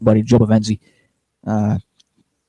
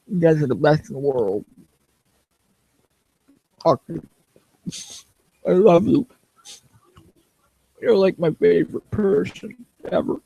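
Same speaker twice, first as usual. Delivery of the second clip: excited; 6 semitones higher than usual. Real, not acted. Playful gushing at a viewer.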